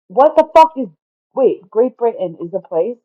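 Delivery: high, loud burst of disbelief; real bewilderment. Real, not acted. Speaker suddenly doubting own geography to listeners, loudly incredulous. Sudden confusion about Great Britain.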